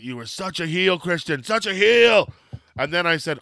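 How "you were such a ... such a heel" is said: hammed-up retold outrage; mock accusation. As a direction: playfully denounce a villain. Acts out accusing Christian to his face.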